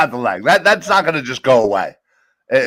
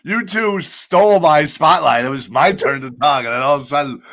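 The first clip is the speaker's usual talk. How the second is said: groggy just-woke-up voice. Real, not acted. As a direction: talk groggy, like just out of bed. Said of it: "that groggy ass voice of yours".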